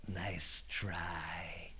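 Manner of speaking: very low, near-whispered; hushed deadpan put-down; cool dismissal. Acted. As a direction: say it softly, totally unimpressed. Lance coolly unimpressed.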